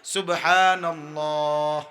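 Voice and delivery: সুবহানাল্লাহ drawn out slowly, every syllable clear; careful sunnah way of saying সুবহানাল্লাহ; slow correct recitation. Shown as a demonstration. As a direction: recite সুবহানাল্লাহ unhurried in one breath. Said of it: "এক নিঃশ্বাসে একবার".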